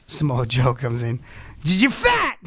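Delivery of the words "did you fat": high, loud mock yell; Scott Steiner outburst. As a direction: blurt it out like an enraged wrestler losing it. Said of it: "Scott Steiner losing it".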